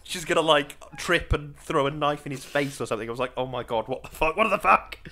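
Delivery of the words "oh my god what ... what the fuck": mock-horrified exclamation building to a louder repeat; retold shock. Viewer recalling fear of a murder on screen, mock shock. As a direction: react in disbelief, rising on the last question. Retelling own shocked reaction to film.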